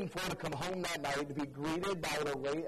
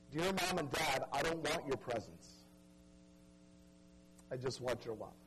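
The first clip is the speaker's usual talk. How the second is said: fading softer and lower with each line, hushed and grieving; son's farewell note; 4 semitones lower, 3 dB quieter than usual. Acted. A son's last note to his parents, read in a hushed, grieving fade. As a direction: read the dead boy's words as if barely holding it together.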